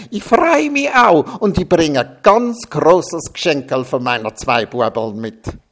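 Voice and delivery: put-on Austrian-accented gushing joy; cheering Austrian accent. A narrator's reading. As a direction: gush in broad Salzburg dialect. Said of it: "jubelte die Salzburger Alpentrine".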